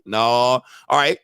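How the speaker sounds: ordinary talk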